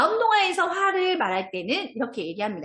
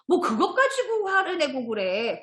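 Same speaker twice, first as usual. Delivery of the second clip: slower, higher-pitched acted scoff; dismissive child; 6 semitones higher, slower than usual. Child dismissing a friend's anger, mildly scoffing. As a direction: brush it off like an unbothered kid. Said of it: "그런 친구가 있고".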